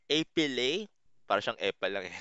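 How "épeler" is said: "Épeler" said ay-puh-lay, rising at the end; French pronunciation. Shown as a demonstration. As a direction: model French "Épeler" with a lifted last syllable. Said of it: "E L E R na verbs".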